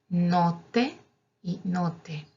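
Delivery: "Note" with a held tt, then "note" with a short t; double t contrast. Shown as a demonstration. Teacher contrasting the two words for learners. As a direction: lean on the t in the first. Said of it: "si yo digo note".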